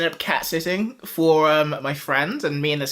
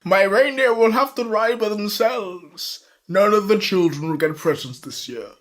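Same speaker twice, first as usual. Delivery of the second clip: Dead Santa voice; 4 semitones higher than usual. Acted. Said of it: "impression of Dead Santa".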